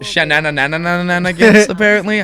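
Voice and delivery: high, loud, slow pompous voice; pompous principal. Acted. Principal greets the boy in his pompous voice. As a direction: purr like a self-satisfied old gent. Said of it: "This voice requires this arm position".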